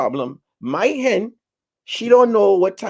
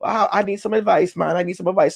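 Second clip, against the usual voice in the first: pleading hen voice; 4 semitones higher than usual. Retold or imitated. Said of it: "they was like".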